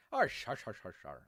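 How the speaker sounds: playful mock-Irish noises; Irish accent. Streamer goofing while wrapping up, mock Irish accent. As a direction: throw out a bit of silly Irish. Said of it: "why I'm doing Irish".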